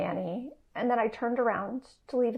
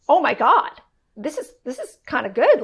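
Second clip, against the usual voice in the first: louder, thrilled realization; excited; 6 dB louder than usual. Retold or imitated. Wife noticing husband backing her up, excited. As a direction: let it burst out with glee.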